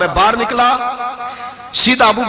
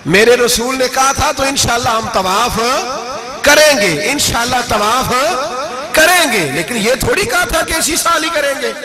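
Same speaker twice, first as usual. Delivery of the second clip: firm rising insistence; 5 semitones higher than usual. Acted. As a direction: drive the point home, pitch climbing. Abu Bakr firmly answering.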